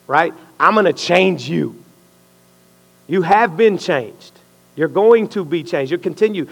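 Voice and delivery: preacher voicing God's promise. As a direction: speak as God promising to change you. Voicing God speaking to him.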